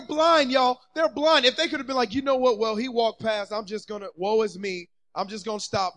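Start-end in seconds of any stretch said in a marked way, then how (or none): 2.1-6.0 low, soft giving up; woe is me. Acted. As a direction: let the voice sink into defeat. Voices the men giving up.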